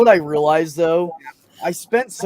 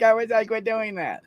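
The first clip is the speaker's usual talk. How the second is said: high voice; 9 semitones higher than usual. Retold or imitated. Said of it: "and I'm like".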